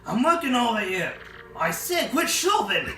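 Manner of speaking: mild annoyed pirate. Acted. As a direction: snap at the crowd to stop pushing.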